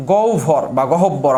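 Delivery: গহ্বর বা গহব্বর drawn out slowly word by word; slow pronunciation. Shown as a demonstration. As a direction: spell out গহব্বর slowly for students. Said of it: "আমরা বলি".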